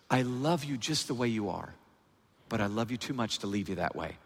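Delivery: low, gentle word from a loving father; tender reassurance. Acted. Preacher voices God speaking to a loved child, tender.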